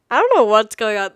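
loud, laughing through the words. Real, not acted. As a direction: laugh at your own rambling as you say it. Laughs at her own rambling.

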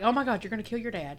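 sarcastic. Retold or imitated. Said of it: "you were saying it sarcastically".

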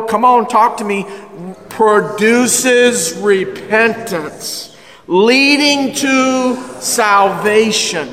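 drawn-out, weighty scripture reading; slow preaching. Acted. Preacher reading scripture to the congregation, slow and weighty. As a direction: lean on every word slowly.

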